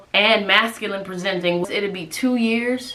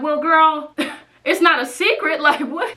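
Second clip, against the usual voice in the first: sassy laughing; 8 semitones higher than usual. Retold or imitated. Retold reply to mom's accusation.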